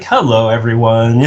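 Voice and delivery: slow, easygoing hello, imitated; friendly greeting. Imitating Mustafa ambling into the office, friendly and slow. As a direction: greet the room innocently, taking your time. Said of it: "just friendly as could be".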